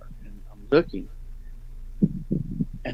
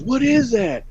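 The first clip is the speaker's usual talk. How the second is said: a shaky, higher retold fright; scared cry; 11 semitones higher, slower than usual. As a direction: replay a friend's panicked "What is that?" in the dark. Friend hears something charge at them.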